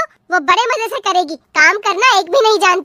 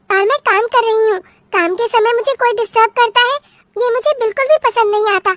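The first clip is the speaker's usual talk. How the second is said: lightly higher, sweet but dodging tone; evasive young bride; 4 semitones higher than usual. Acted. Bride fobbing off her mother-in-law about what she chews, slightly higher sweet voice. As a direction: brush her off politely in a girl's voice.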